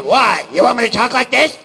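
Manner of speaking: high, loud cartoon squeak; Mickey Mouse. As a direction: show off a silly mouse voice. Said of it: "What in the hell is wrong with your voice".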